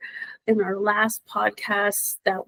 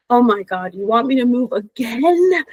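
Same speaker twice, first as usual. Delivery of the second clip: whiny protest to the universe; 8 semitones higher than usual. Retold or imitated. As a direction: protest like a stubborn kid who won't move. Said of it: "I'll be, like, saying to the universe".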